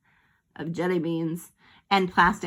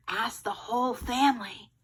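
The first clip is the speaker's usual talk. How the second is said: softer hushed aside; mild whisper; 2 semitones higher, 5 dB quieter than usual. Acted. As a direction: lean in and say it softly. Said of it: "he whispered".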